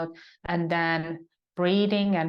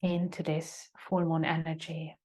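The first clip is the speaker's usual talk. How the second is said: calm, unhurried yoga teacher guiding reflection; measured meditation guide with long silences; guided meditation. Acted. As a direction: settle them into stillness, leaving long pauses between phrases. Leads a meditation.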